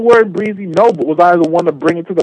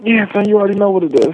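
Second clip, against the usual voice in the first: breathy; faster than usual. Real, not acted. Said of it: "why are you all breathy".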